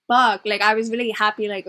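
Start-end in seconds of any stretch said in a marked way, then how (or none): 0.1-0.4 frustrated curse. Retold or imitated. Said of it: "You're like".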